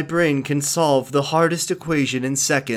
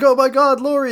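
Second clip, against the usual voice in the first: high, louder panicked cry; mock panic; 11 semitones higher, 6 dB louder than usual. Friends hearing Lori scream in there, mock panic. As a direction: shout her name in hammed-up horror.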